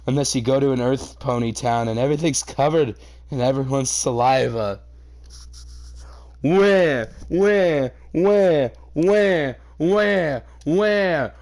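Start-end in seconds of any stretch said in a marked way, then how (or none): 6.4-11.3 stuck stammer. Real, not acted. Stuck repeating the word.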